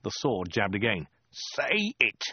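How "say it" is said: higher, insistent demand; menacing order. A narrator's reading. Soldier jabbing the sword again, insistent order. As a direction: press each word as a threat.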